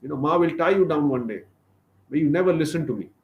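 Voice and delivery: big brother tells him off; scolding. Acted. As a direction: chide the naughty little brother. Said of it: "he chastises Krishna".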